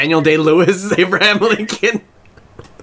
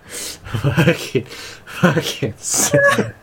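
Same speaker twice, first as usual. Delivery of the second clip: mock anguished whine; much slower than usual. Mock despair at the joke.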